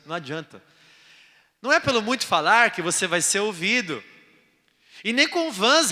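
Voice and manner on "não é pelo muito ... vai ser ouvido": ordinary talk, nothing marked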